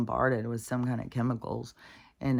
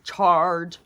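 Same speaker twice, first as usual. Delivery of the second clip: short, louder, higher charge cry; mock battle cry; 4 semitones higher, 7 dB louder than usual. Owner voicing Max the dog taking off, mock charging cry. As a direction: call out like a dog launching an attack.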